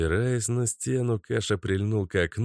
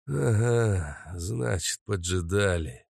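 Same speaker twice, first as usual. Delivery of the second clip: put-on old man's thought; slower than usual. Old man realizing he was ambushed.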